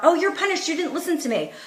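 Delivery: a touch of a nagging parent; half-hearted mock punishment; mock scolding. Shown as a demonstration. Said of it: "It's not about".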